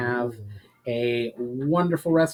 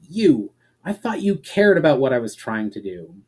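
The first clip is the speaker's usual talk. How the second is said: a sharp, louder outburst of betrayal; angry outburst; 6 dB louder than usual. Acted. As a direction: fling it at her in anger. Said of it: "burst out in anger".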